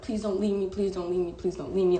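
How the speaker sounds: repeated plea, mildly acted; retold begging. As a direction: retell a desperate plea with restraint. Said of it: "I'm on my knees begging this man".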